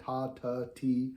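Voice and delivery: "ta, ta" then "ti", changing only the vowel. Shown as a demonstration. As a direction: switch the vowel after the t. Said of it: "the vowel at the end".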